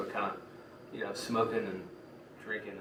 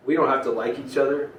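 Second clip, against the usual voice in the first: raised, louder rallying line; pep talk; 4 semitones higher, 6 dB louder than usual. Acted. Leader uniting rival villains against a common enemy, rallying. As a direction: address the whole gang to win them over. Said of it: "the, the pep talk".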